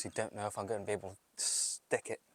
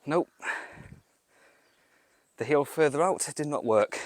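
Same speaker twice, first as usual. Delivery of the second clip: frustrated outburst; 5 semitones higher, 9 dB louder than usual. Real, not acted. Frustrated after fall.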